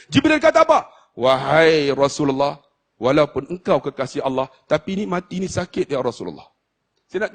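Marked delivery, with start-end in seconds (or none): 1.1-6.5 a hint of grieving angel. Jibril telling the Prophet he cannot watch him die, sorrowful. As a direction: speak as one who cannot bear to watch. Jibril says death is painful.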